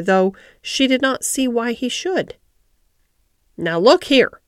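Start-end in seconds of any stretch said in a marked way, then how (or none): 3.6-4.4 mildly cross warning; sharp. Acted. Ben suddenly turns on Mary, sharp and cross. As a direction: cut in sharply to stop the questions. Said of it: "he said sharply".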